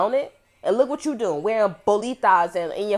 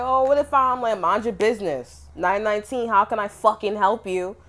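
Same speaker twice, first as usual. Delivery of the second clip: mock sassy voice; 3 semitones higher, 4 dB louder than usual. Mocking what people say.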